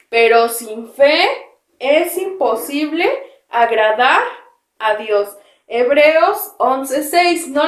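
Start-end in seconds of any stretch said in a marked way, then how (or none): 0.1-5.4 put-on slow, drawn-out verse for children to repeat; slow recitation. Shown as a demonstration. Teacher leading children in a slow verse recital. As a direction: spell the verse out slowly, word by word. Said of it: "después de mí".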